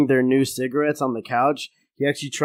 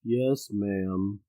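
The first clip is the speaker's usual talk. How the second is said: meek stammer; 5 semitones lower, 10 dB quieter than usual. Acted. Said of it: "Homer just sort of stammers".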